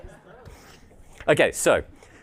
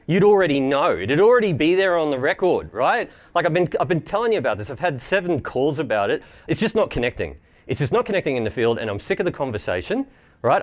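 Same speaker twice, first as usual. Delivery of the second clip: irate customer. Pretend. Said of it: "I am irate!".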